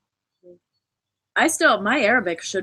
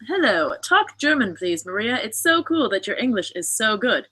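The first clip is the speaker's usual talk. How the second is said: reading a comment aloud; 3 semitones higher than usual. Retold or imitated. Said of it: "I'm reading a comment that says".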